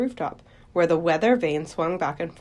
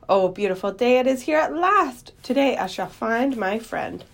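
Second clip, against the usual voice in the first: higher-pitched, lilting delight; joyful exclamation; 5 semitones higher than usual. Acted. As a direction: greet the long-awaited day with wonder. Greeting the longed-for dawn.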